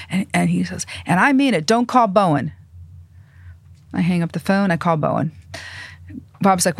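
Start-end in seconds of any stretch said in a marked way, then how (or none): 1.1-2.5 imitated stern warning, pitched up; higher-voiced mock order; mock temper. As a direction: lay down the law like an irate boss, lightly acted. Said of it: "Italian temper".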